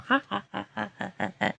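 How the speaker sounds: high soft giggle; light high laughter at teammate's story; giggling laugh. Real, not acted. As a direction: giggle under the breath.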